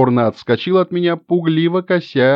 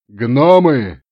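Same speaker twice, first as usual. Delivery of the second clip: rally the crowd with a shout; loud call to the gnomes; 4 dB louder than usual. Acted. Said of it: "заорал я". (громкий призыв к гномам)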